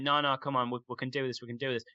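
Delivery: soft, calming mum voice; soothing mother. Retold or imitated. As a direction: ease the panicking boy down gently. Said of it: "calming him down".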